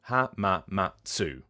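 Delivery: hamamatsu slow, syllable by syllable, as written; spelt-out English reading. Shown as a demonstration. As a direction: sound out "hamamatsu" evenly with a full "tsu". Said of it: "for an English person, written".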